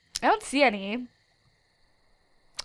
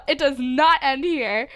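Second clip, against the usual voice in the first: defiant vow; 3 dB louder than usual. Real, not acted. Vowing to keep hunting.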